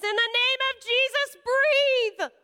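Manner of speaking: high, loud, forceful command; commanding shout. Retold or imitated. Stranger commanding the choking boy, loud and high. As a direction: cry it out like a healing prayer. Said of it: "and she says".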